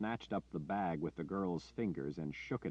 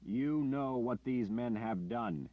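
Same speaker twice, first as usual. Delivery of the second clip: slow, commanding and louder; powerful voice; 5 semitones higher, 4 dB louder, slower than usual. Acted. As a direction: command the room to silence. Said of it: "he said in a powerful voice".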